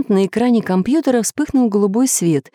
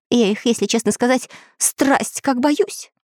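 scared parrot; 5 semitones higher than usual. Acted. Parrot admits his fear.

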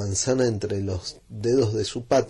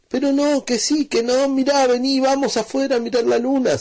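put-on far higher, louder child's urging; excited insisting; 6 dB louder than usual. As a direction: drag papa outside, insistent. Children argue with father.

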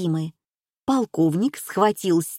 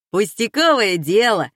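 usual speaking voice

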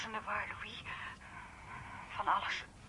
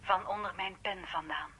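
slow, hushed poem recital; reading a poem; 3 semitones lower, slower than usual. Acted. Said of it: "Ja, laat eens horen".

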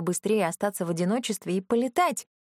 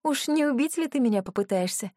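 с усмешкой; 5 semitones higher than usual. Acted. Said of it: "с усмешкой спросила я".

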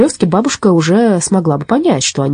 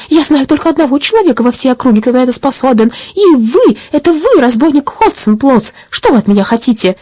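put-on high, louder old lady's indignation; indignant granny; 8 semitones higher, 3 dB louder than usual. A narrator's reading. Granny indignant at the robber who kidnapped her. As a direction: scold him in a high old voice. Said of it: "Бабушка возмутилась".

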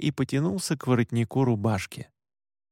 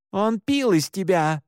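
growled; 5 semitones higher than usual. Acted. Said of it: "прорычала Оливет".

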